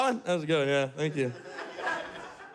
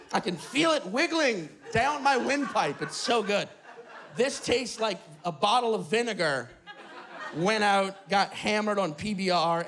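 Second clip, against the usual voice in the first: mock delight at a sour drink; fake enjoyment; 4 semitones lower than usual. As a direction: pretend it tastes wonderful, laughing. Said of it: "pretending to like it".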